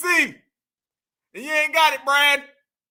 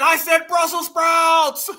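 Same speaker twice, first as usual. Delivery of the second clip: hammed-up meltdown, high, loud and drawn out; mock outrage; 5 semitones higher, 6 dB louder, much slower than usual. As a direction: wail it slowly in mock fury. Mocking angry man in meme.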